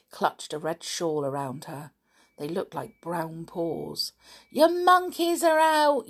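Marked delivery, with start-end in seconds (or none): 4.5-6.1 put-on high, loud children's shout; yelling children. A narrator's reading. Camp children alert Lucilla to her monkeys, yelling. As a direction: yell the news, high and urgent. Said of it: "yelled the camp children".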